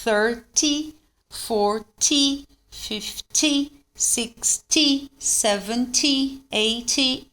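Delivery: "Thirty" to "eighty" with crisp, lifted "ty" endings; "sixty", "seventy" with a short rising "tee"; marked short TY. Shown as a demonstration. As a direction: clip the final Y of "forty", "fifty". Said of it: "o Y ele é bem marcado".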